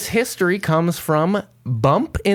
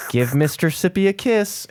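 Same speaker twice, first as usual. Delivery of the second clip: creepy dentist; 5 semitones higher than usual. Retold or imitated. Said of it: "sounds really creepy in hindsight".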